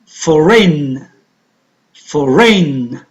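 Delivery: FOREIGN said slowly and clearly, G silent. Shown as a demonstration. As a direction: model the word FOREIGN with no G sound. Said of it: "So G is a silent letter".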